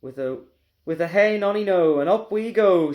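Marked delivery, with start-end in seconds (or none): 1.1-2.0 a high, loud sing-song cry; shouted. Acted. Grandma calls gleefully while growing, shouting. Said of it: "she shouted". 2.1-2.9 a high, loud call of delight; shouted. Acted. Grandma cheers her own growing, shouting. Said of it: "she shouted".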